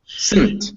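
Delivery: Sunt with N as the vowel; syllabic N. Shown as a demonstration. Teacher modelling a tricky syllable, "Sunt" with syllabic N. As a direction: say "Sunt" as S straight into a held N. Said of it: "the N kind of is the vowel".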